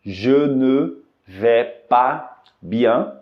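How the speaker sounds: "Je ne vais pas bien" stretched out slowly; very slow demo. Shown as a demonstration. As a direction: draw the whole phrase out. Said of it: "Na frase".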